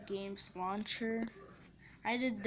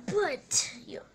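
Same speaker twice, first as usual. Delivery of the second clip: whisper; 5 semitones higher, 8 dB louder than usual. Real, not acted. Whispering in dining room.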